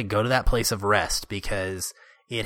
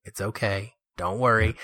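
imitating calm reassurance. Chick soothing Harry amid gunfire, hushed and calm. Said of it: "he's just calmly following him around".

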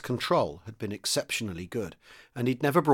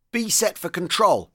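higher, slow, drawn-out call; shouted command; 7 semitones higher, 4 dB louder, slower than usual. A narrator's reading. Commander to the other tanks, shouting an order. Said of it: "he shouted to the other tanks".

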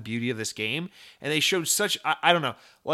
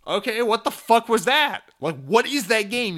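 higher, louder mock bewilderment; baffled outburst; 7 semitones higher, 5 dB louder than usual. Hypothetical viewer reacting to a vague trailer, baffled. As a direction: demand an answer as a confused viewer.

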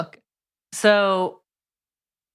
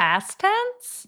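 incredulous question; 12 semitones higher than usual. Retold or imitated.

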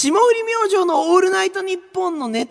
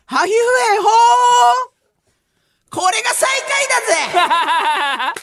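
hammed shout; 2 semitones higher, 3 dB louder, faster than usual. Hammed announcement of last place.

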